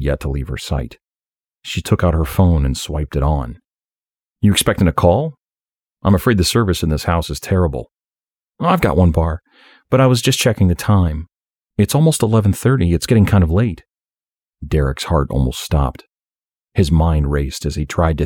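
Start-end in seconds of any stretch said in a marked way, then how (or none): 4.4-13.8 lightly voiced young woman; a hint of a casual young woman. Beth voiced by narrator.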